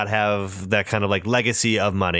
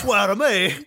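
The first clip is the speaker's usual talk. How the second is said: gruff gravelly Batman voice, hammed up; mock Batman growl; 8 semitones higher than usual. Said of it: "His, his Welsh accent".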